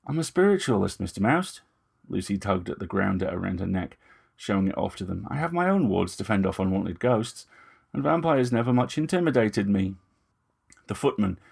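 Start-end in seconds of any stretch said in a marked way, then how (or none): 0.1-10.0 Lucy's measured, slightly raised voice; Lucy, poised young woman. Acted. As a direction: speak as Lucy, politely defiant. Lucy defends herself.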